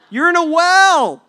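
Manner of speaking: high, slow, drawn-out yell; exasperated shout. Acted. Rescuer to man in the well, exasperated high shout. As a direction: yell the obvious in disbelief.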